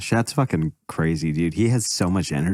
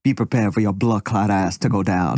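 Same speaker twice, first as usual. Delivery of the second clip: imitating Jamaican accent. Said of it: "cartoons with Jamaican accent".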